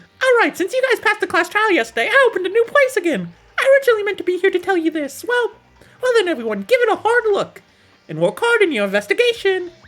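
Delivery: very high-pitched, loud cartoon bear voice. Voicing Monokuma announcing a new place after the class trial; Monokuma voice. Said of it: "my Monokuma voice is really like honing".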